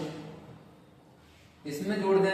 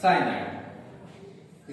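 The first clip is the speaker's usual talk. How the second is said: साइनाइड stretched out very slowly, syllable by syllable; drawn out; 3 semitones lower, much slower than usual. Shown as a demonstration. Teacher completing the compound name for students, slowly drawn out साइनाइड. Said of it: "तो पूरा नाम हो गया बेटा ethyl".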